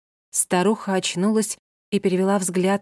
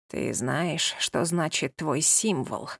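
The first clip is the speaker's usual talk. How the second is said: put-on lower, quieter, slow old woman asking; 3 semitones lower, 4 dB quieter, slower than usual. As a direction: ask it low and slow like an old crone. Old healer questions duke.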